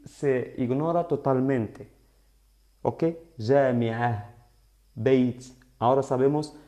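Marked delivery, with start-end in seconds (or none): 3.4-4.3 JAMI'AH with no t at the end; omisión total. Shown as a demonstration. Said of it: "la diferencia en la omisión". 4.9-5.4 BEIT with its final t sounded; omisión con t. Shown as a demonstration. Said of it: "la diferencia en la omisión".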